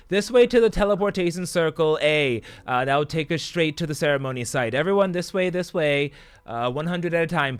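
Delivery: high, loud announcer to a crowd; calling out directions. Acted. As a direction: project over a crowd, herding them along. Dean calling directions to crowds of students.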